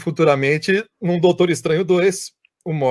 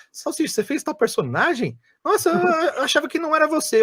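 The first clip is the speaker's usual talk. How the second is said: excited fan; 13 semitones higher than usual. Retold or imitated. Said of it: "a galera chega pra mim e fala".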